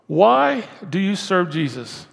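normal talking voice

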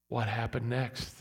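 ordinary talk

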